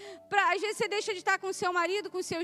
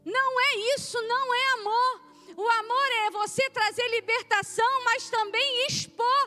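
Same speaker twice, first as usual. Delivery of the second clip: higher and louder, driving sermon voice; full-force preaching; 6 semitones higher, 4 dB louder than usual. Acted. Pastor warning the church that love also exposes, preaching at full force. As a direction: hammer it home to the congregation.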